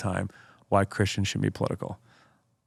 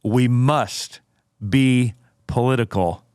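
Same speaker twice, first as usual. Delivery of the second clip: slow, deliberate declamation with heavy pauses; emphatic quote reading; slower than usual. Acted. Host drives Spurgeon's quote home to co-host, emphatic oratory. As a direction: land each phrase with weight. Climax of the quotation.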